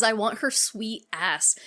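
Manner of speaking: slow imitation of a leering man; lingering creepy delivery. Doctor talking about his daughter's friend, slowly leering. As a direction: draw the words out to sound icky. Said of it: "the way he says it is".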